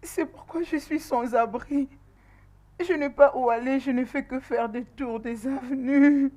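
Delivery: tearful confession of having nowhere to go. Acted. Homeless pregnant girl confides in her friend, tearful. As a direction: tell it on the edge of sobbing. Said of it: "Arrête de pleurer".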